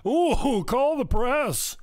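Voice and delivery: high, slow, hammed-up gasp of outrage; sarcastic high-pitched ooh; mock alarm. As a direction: pretend to be scandalised. Mocking fake outrage.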